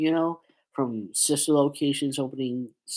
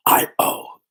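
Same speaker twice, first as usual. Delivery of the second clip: louder second stab at the villain voice, broken off; William Afton; 5 dB louder than usual. Acted. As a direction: start the villain catchphrase, then give up. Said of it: "well, I can't do it".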